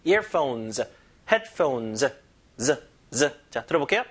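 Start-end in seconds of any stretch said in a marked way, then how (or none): 0.0-2.1 Earphones, headphones, each ending on a drawn z; deliberate plural endings on Earphones and headphones; plural S demo. Shown as a demonstration. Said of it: "복수형으로 잘 읽으세요". 2.6-3.3 a voiced buzzing z, said twice; the plural ending z demonstrated alone; isolated z sound. Shown as a demonstration. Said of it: "복수형으로 잘 읽으세요".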